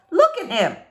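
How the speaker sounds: delighted neighbor pointing; amused neighbor. Acted. Missus Tickham marvels.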